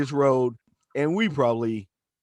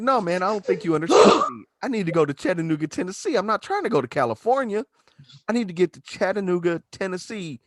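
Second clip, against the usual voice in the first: exasperated insisting; 4 semitones higher than usual. Retold or imitated. Wrestler insisting to the clerk, mildly raised voice. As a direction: spell it out for the clerk, mild mock frustration.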